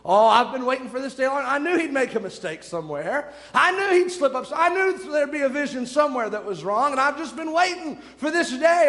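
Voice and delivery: eager, rising glee at catching him out; gleeful Judas. Pretend. Judas gloats, waiting to catch Jesus: mild glee.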